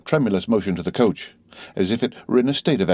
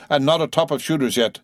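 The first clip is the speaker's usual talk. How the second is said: high, exasperated urging; raised voice, vexed and pushing the team on; vexed coachman; 7 semitones higher than usual. A narrator's reading. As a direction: chivvy the horses crossly. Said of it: "the vexed coachman".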